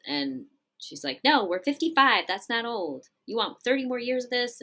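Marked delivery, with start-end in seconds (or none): 1.2-4.6 higher, mildly indignant wife's comeback; acted indignant retort. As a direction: argue back as the fed-up wife. Acted wife arguing back with husband.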